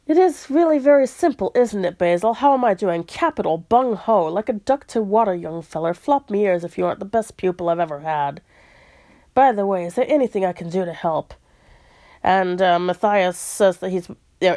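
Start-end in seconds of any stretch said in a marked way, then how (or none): 0.1-11.3 attempted British officer accent. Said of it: "I can't do the accent".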